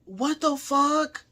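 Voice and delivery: high, slow, softened disbelief; stunned disbelief. Real, not acted. Reacting to having been with a crackhead, slow bafflement. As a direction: draw it out high and soft, baffled.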